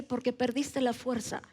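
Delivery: hablado un poco más bajo y grave, como voz interior; voz de Dios al corazón. Retold or imitated. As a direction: ligera voz de Dios, suave y pausada. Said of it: "el Espíritu Santo me habla a mi corazón y me dice". (voz divina suave, contenida)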